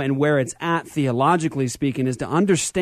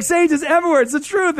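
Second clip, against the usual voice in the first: mock high voice; 12 semitones higher than usual. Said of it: "I'm like".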